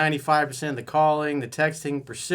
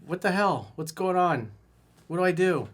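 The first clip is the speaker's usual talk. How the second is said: higher pitched, frantic mock confusion; mock bewildered plea; 6 semitones higher than usual. A frantic guy writing in about his girl, mock bewildered. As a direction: voice him as lost and pleading, pitched up. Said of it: "he's like".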